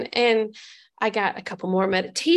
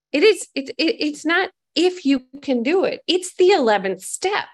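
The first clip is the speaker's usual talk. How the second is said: firm insistence; 4 semitones higher, 4 dB louder than usual. Retold or imitated. Sponsor insisting on the step.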